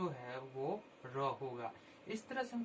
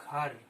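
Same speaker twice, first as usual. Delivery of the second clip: घर stretched and louder; spelling-out repetition; 4 dB louder than usual. Shown as a demonstration. Teacher repeating घर aloud so children hear its letters. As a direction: say घर loudly and clearly for the children. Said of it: "तीन चार बार बोलेंगे इसको".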